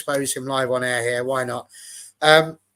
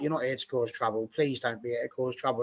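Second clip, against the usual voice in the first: pleading barman; 2 semitones lower, 6 dB quieter than usual. Retold or imitated. Barman pleading with England fan.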